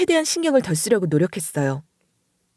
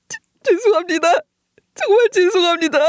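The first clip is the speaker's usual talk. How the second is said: much higher, stammered tearful apology; distressed apology; 10 semitones higher than usual. Acted. Boy who survived apologising to grieving father, distressed. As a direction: stumble over a desperate sorry.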